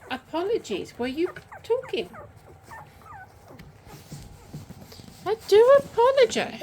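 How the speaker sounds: loud high call from above; calling down from tower. Real, not acted. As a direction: call out up high across the yard. Calling out loudly to someone.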